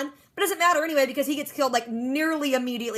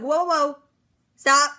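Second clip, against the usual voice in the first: "stop" thrown out much louder; mock urgent halt; 2 semitones higher, 6 dB louder, much slower than usual. Carol stopping Maggie from rushing to the alarm, loud halt. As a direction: hold her back with a sharp loud stop.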